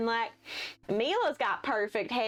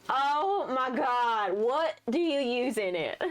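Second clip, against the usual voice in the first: gushing Hayden; 2 semitones higher, slower than usual. Acted.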